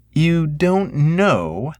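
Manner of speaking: can't believe he doesn't know; incredulous sister. A narrator's reading. Sister disbelieving.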